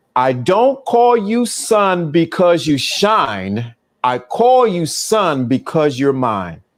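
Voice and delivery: very slow, deliberate, word-by-word delivery. Speaker repeating a line one more time for listeners who asked, real slow. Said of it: "Real slow".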